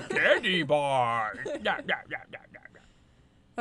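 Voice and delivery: laughing through the words; slow, laughing, drawn out. Real, not acted. Laughing while saying it.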